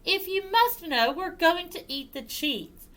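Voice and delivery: high-pitched, put-upon cat; high cat explaining to a pest; cat character. Acted. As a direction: give in to the dog in a high cat voice. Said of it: "said the cat".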